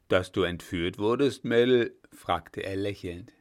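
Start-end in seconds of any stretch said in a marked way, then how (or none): 0.1-1.9 a lightly voiced gruff old marshal, a bit louder; a hint of a booming old general; old commander teasing the young lieutenant; old field marshal Blücher.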